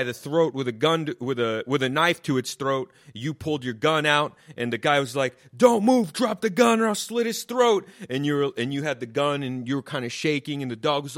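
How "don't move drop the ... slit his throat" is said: higher, louder hammed-up villain; comic voicing the villain in his fantasy rescue; mock thug threat. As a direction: snarl it like a movie knife guy. Knife guy in imagined scene.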